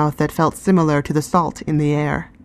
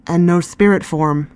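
forced nonchalance. Acted. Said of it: "with forced nonchalance".

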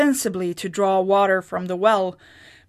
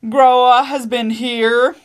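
aghast; 5 semitones higher, 10 dB louder, slower than usual. A narrator's reading. Husband aghast at the news.

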